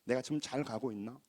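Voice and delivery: very soft, low self-questioning; hushed retold moment of doubt; doubting inner voice. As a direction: quietly wonder to yourself, unsure. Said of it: "문득 우리도 의심이 생기고 흔들려요".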